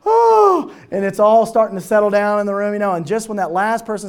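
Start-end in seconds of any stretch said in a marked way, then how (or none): 0.1-0.7 high breathless laughing gasps; laughing fit. Retold or imitated. Friends settling down after a joke, high breathless laughter. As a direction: gasp it out through tears of laughter. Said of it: "you can't breathe and the tears are coming out".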